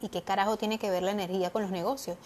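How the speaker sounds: usual speaking voice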